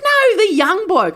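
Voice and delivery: high, loud, drawn-out correction; imitating exasperated dad. Misunderstood dad correcting daughter, exasperated. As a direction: stretch it out in mock exasperation.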